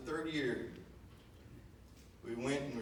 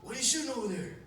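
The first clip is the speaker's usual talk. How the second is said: much higher, louder call across; 11 semitones higher, 6 dB louder, faster than usual. Retold or imitated. Dad calling across the field, shouting. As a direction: shout to the other blind.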